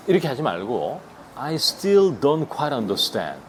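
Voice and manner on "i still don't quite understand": very slow, every word spaced; teacher modelling slowly; slow demo. Shown as a demonstration. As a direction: spell it out for learners. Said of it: "이렇게 하면".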